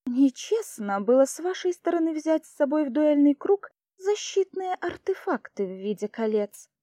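usual speaking voice

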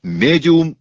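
high, loud cry of alarm; frightened shout. A narrator's reading. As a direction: shout a desperate warning. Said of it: "испуганно закричал Рауль". (испуганный крик)

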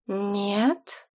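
soft, silky menace; gentle voice hiding a threat; deceptively soft. A narrator's reading. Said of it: "обманчиво мягко переспросил Саид".

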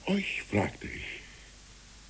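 slow, hushed whisper; a slow whisper into the dark. Acted. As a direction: breathe it out slowly and softly. Children answering evening call.

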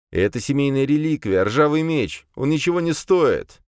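put-on frightened voice, understated; feigned fear. A narrator's reading. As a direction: plead as if pretending to be scared. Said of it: "Я заставил свой голос дрожать, изображая страх".

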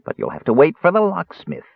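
high, thin complaint; thin whine. A narrator's reading. Jailer putting off the bearskin man, whining thinly. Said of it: "the jailer whined in a thin voice".

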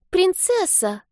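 put-on high little girl calling her cat; child's voice. A narrator's reading. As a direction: call out for the lost kitten. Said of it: "раздался детский голос".

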